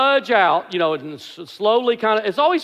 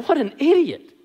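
higher, laughing replay of the insult; 6 semitones higher than usual. Retold or imitated. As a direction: toss it off with a chuckle. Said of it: "And I just said".

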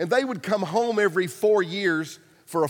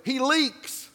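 louder, higher mock panicked plea; hammed-up wife begging, half laughing; mock shriek breaking into a laugh; mock scream; 6 semitones higher, 4 dB louder, slower than usual. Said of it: "She stood up and screamed".

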